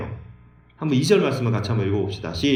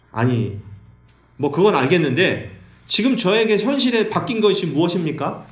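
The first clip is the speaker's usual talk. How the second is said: sulky complaint; 5 semitones higher than usual. Retold or imitated. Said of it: "이러면서 삐졌어요".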